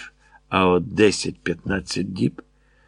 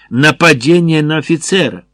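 higher-pitched narrated outcry; shrieking; 6 semitones higher, 4 dB louder than usual. A narrator's reading. Major denouncing an attack on an officer, shrieking. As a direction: cry out high in mild outrage. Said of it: "верещав Краснов Триколору".

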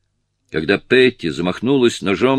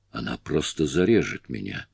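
whispered; 7 semitones lower, 7 dB quieter than usual. A narrator's reading. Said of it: "прошептала Кэрри".

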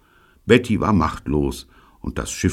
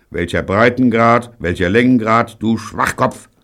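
loud, raised, impatient demand; angry interruption; 6 semitones higher, 6 dB louder than usual. A narrator's reading. Neil berating David over the radio, angry. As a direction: cut in and berate them.

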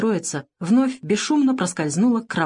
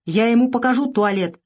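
irritated threat; 4 semitones higher than usual. A narrator's reading. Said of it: "раздражённо пригрозила она".

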